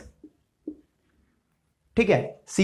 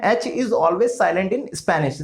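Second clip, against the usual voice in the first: slow, with always stressed; slow emphatic rule; much slower than usual. Shown as a demonstration. Teacher stresses a spelling rule to students, slow. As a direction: lay down the rule slowly. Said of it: "first of all, जो H है".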